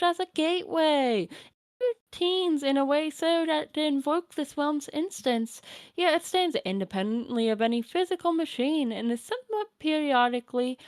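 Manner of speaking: lightly voiced doting grandmother; a hint of a kindly old granny; old grandma voice. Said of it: "my Nana voice".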